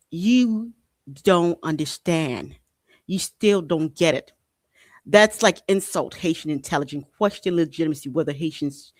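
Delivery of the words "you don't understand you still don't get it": condescending mock. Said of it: "other things they like to use here".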